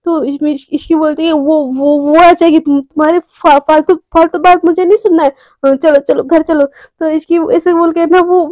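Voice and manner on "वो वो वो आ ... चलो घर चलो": flustered stammering. Acted. Flustered, changing the subject.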